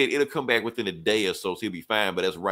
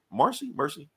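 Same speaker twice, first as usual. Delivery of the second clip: high questioning Marcy then Mercy; checking the name, pitch jumping up; puzzled high query; unsure name check; 6 semitones higher than usual. Retold or imitated. Correcting the name, rising query.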